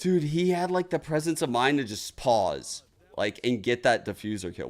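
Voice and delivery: excited. Real, not acted. Hyped replay breakdown.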